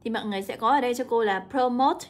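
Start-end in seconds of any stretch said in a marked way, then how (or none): 1.5-2.1 "promote" stressed on the second syllable, -MOTE; nhấn âm hai. Shown as a demonstration. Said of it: "nhấn vào âm số hai". (đọc "promote" nhấn vào "mote")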